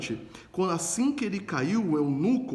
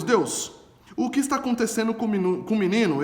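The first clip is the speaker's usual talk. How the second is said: urgent plea; 5 semitones higher, 3 dB louder than usual. Retold or imitated. Paulo cries out to God.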